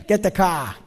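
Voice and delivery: Boston "car" with the R dropped; Boston accent. Shown as a demonstration. Preacher imitating people from Boston, Boston accent. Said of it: "Or people from Boston".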